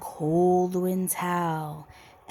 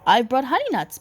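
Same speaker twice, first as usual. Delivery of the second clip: grinning badger; 4 semitones higher, 4 dB louder, much faster than usual. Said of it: "badger says with a grin".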